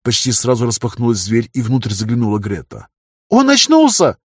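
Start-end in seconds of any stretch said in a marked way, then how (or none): 3.3-4.2 high excited shout outward. A narrator's reading. Greta calls outside that he has woken, high and loud. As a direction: call it out loud to the people outside. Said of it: "крикнула она наружу".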